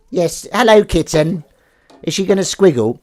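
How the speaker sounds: high cooing pet voice. Real, not acted. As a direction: coo at the cat. Talking to the cat.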